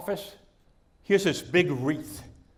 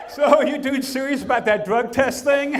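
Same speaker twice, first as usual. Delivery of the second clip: hick voice; 6 semitones higher, 4 dB louder, slower than usual. Acted. Joke punchline, job applicant.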